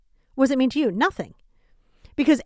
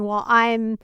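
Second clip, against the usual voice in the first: slow, drawn-out lament; slower than usual. Retold or imitated. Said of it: "It would be like me saying".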